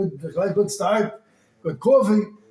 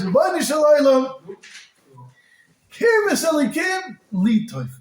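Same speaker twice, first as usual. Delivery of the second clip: raised, impassioned plea to heaven; fervent cry to God; 5 semitones higher, slower than usual. Retold or imitated. King David pleading aloud to God, fervent cry. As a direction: cry out the verse with longing.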